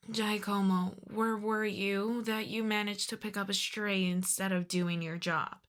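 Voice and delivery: soft, restrained reproach; exasperated questioning. Acted. Boss asking Giacomo how he botched the job, quietly reproachful. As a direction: take the underling to task quietly.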